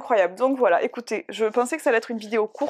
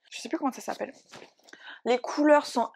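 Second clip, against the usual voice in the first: whispering; 3 semitones higher than usual. Real, not acted. Awed praise of a comic.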